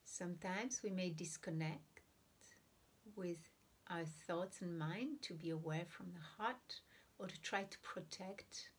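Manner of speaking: unhurried meditation guidance with long silent pauses; guided meditation. Real, not acted. Teacher guiding listeners to breathe and observe the heart, guided meditation. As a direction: ease listeners into breathing, leaving room between phrases.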